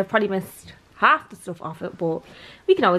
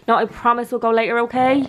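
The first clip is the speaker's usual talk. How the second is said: higher, louder insistent promise to a pet; reassuring the dog; 3 semitones higher, 6 dB louder than usual. Real, not acted. Owner promises dog a later walk, reassuring. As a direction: promise it brightly and emphatically to the dog.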